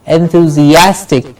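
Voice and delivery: "Enthusiastic" with weight on AS; en-thu-zi-AS-tic, strong A; stress on A. Shown as a demonstration. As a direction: say "Enthusiastic" hitting the A vowel. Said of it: "The a sound gets the stress".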